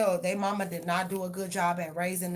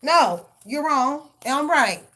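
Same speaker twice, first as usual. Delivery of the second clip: high, loud yelling fit, slow on "No, you're wrong"; mock outburst; 9 semitones higher, 10 dB louder, much slower than usual. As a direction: shriek it like someone who refuses to be wrong.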